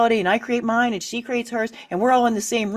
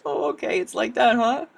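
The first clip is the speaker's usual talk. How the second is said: shrug it off; 5 semitones higher than usual. Shown as a demonstration. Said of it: "is it really like".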